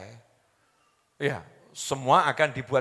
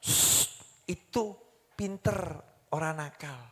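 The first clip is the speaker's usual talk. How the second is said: gentle correction; 5 dB quieter, slower than usual. Retold or imitated. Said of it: "jawabannya orang tua dulu apa?".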